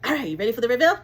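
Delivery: loud, high, hyped-up announcement; hyped reveal. Real, not acted. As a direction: build the big reveal like a TV host. Building up to product reveal.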